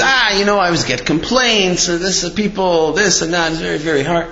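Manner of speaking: mildly aggrieved retold grumble; complaining. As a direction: lightly act out a worn-down complaint. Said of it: "he's complaining".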